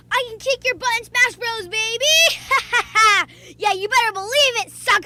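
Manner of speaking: cocky loud trash talk; taunting. Real, not acted. Boasting to viewers about Smash skills, cocky. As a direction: gloat like a champ.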